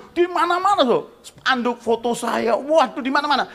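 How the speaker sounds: high, loud amazement; slow, stunned exclaiming; astonished. Real, not acted. Preacher seeing his face on posters everywhere, loud astonishment.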